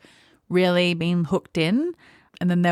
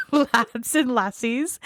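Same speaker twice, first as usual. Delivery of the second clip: put-on Scottish accent; 5 semitones higher, much slower than usual. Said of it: "I can't do a Scottish accent".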